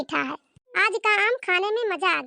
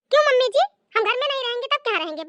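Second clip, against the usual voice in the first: indignant protest; 6 semitones higher, faster than usual. Acted. Bride protests eviction.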